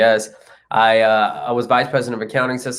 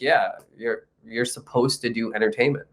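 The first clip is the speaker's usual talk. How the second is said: calm guru; 6 dB quieter than usual. Retold or imitated. Guru's unruffled answer to panic.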